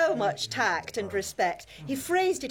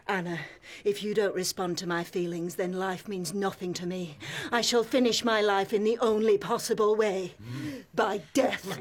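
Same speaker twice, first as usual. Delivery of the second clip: lovely deep voice; 2 semitones lower than usual. Retold or imitated. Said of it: "he said in a lovely deep voice".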